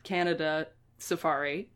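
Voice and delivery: mock formal listing. Real, not acted. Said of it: "making a mock formal case".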